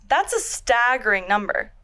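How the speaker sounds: slightly bright professional voice; polished work-call delivery; customer service voice. Retold or imitated. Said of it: "What was that word you used earlier?".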